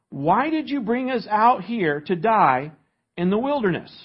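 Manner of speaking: sarcastic protest to the man in charge; sarcastic complaint. Acted. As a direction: read it as the people sarcastically challenging their leader. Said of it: "You can hear the sarcasm in their voice".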